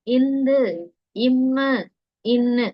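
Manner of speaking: இந்து, இம்மு with the nasal unpressed; soft nasal consonants. Shown as a demonstration. Teacher continuing mellinam examples, soft consonants. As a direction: glide through the nasal in இம்மு. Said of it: "இது எங்கேயா ரொம்ப அழுத்துறோமா?".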